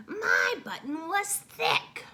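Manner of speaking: high, slow crying yell; tearful shout. A narrator's reading. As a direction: shout it close to tears. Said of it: "shouted Toad".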